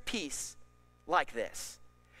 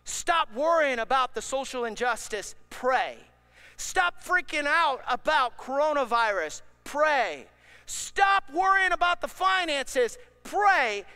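louder with each command, clipped pray after each; rising exhortation; 4 semitones higher, 5 dB louder than usual. Real, not acted. Preacher urging worried listeners, building louder. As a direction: build the charge, then land on pray.

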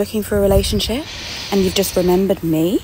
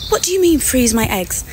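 imagined comeback; 6 semitones higher than usual. Retold or imitated. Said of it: "I felt like saying to him".

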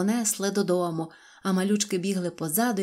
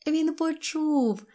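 high, drawn-out happy exclamation; overjoyed; 9 semitones higher, much slower than usual. A narrator's reading. Girl seeing her friend heard her, overjoyed. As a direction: exclaim it with relief and delight. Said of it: "зраділа Синьочка".

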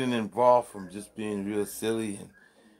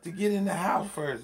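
mock impatient; 11 semitones higher than usual. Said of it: "he said".

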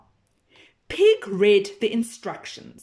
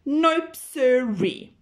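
louder, higher folksy nope sirree; cow's drawl; 4 semitones higher, 3 dB louder, slower than usual. Acted. Cow refusing her dinner, folksy. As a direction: stretch it like a stubborn cow.

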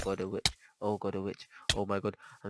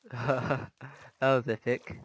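slow; much slower than usual. Real, not acted. Slow reflective remark.

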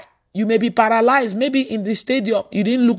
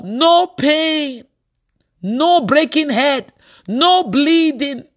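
triumphant; 4 semitones higher, much slower than usual. Real, not acted. Triumphant list of harms avoided.

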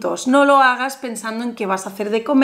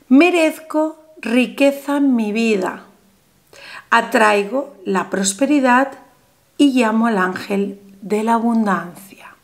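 solemn affirmation; 2 semitones lower than usual. Shown as a demonstration. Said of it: "vamos a decir en voz alta".

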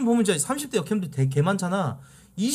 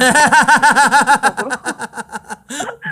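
loud laugh; 8 semitones higher, 12 dB louder than usual. Real, not acted. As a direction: burst of high loud laughter. Laughs at caller's joke.

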